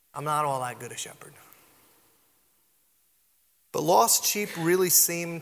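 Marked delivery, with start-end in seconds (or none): 0.1-1.3 whispered confession, unvoiced; hushed whisper of an admission. Shown as a demonstration. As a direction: breathe it like a secret.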